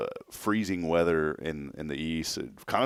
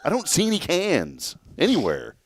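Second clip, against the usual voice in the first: retold joke; 11 semitones higher than usual. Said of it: "I was like".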